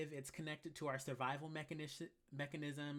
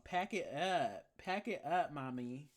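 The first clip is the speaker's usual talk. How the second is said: sassy drawl; slower than usual. Pretend. Sassy dismissal repeated.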